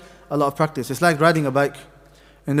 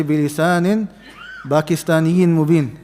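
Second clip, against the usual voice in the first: Pakistaniyin stretched slowly as a joke; teasing the wrong version; mock wrong quote. Teacher joking about Urdu habits in recitation. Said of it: "Allah didn't say".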